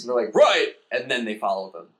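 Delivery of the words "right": much higher, loud keen shout; gung-ho go signal; eager yes. Acted. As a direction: Vogons getting approval. Vogons eager reply.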